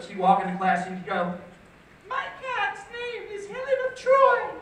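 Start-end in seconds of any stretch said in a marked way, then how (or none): 2.1-4.5 high, hammed-up British English teacher; fake British accent. English teacher announcing herself to the class, fake British accent. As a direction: put on a grand fake British accent, pitched way up. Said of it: "this is how she did it".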